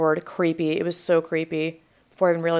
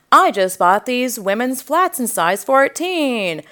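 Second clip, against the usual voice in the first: imitating a man proudly announcing himself; mock self-important declaration; boastful announcement; 3 semitones higher than usual. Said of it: "he announces to us".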